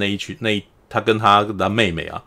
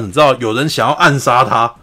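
ordinary delivery

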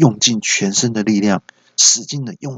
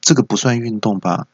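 raised-pitch start, mildly taken aback; puzzled disbelief, lightly acted; retold surprise; 4 semitones higher than usual. Father hears son's sport was fighting, mock surprise. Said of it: "我就很惊讶说".

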